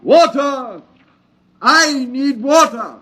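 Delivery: high, urgent call. Acted. Thirsty stranger calls out to the prospector for water, high pleading call. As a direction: beg across the distance.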